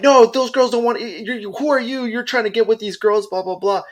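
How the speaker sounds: high, scolding mock-mother voice; indignant mom. Offended mom accusing the man over her girls, indignant. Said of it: "And she's like".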